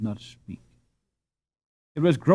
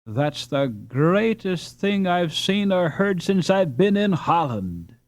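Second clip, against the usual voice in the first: enthusiastic; 4 semitones higher than usual. Acted. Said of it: "cried Ben enthusiastically".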